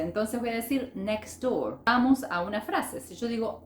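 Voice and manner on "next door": "next door" run together as neks-door; silent middle T. Shown as a demonstration. Teacher showing how natives join it, T dropped. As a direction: drop the t of "next" before "door". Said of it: "no se pronuncia".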